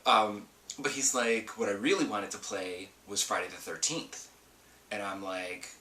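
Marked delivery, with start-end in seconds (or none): 1.6-4.3 lightly imitated husband; put-on husband voice. Wife retelling husband's real wish, lightly put-on voice. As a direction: quote a husband with a hint of a put-on voice. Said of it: "doing this voice for him".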